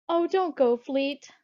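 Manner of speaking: high, loud, anxious plea; fearful. Acted. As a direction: plead urgently with a friend. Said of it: "Bertha said fearfully".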